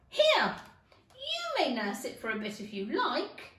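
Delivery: high, loud call to Alice; brusque Duchess. Acted. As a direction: fling the baby at her. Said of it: "the Duchess said to Alice".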